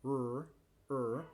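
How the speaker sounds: "er" with the tongue off the palate; a resonant English "er"; English R sound. Shown as a demonstration. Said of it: "para pronunciar el sonido er".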